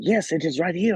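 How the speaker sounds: high-pitched mock French accent; put-on French accent, pitched well up. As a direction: imitate an insistent French interviewer. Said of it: "with the accent that you were doing".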